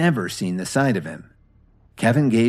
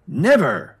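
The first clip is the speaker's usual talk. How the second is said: a touch of bitterness, higher; bitter refusal; 6 semitones higher, 4 dB louder than usual. A narrator's reading. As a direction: spit out the refusal, understated. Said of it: "Meriwether said bitterly".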